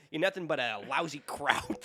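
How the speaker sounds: put-on lightly done New York accent, half laughing. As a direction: play Chester with a hint of New York. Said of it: "I'll do it in the Chester Bailey voice".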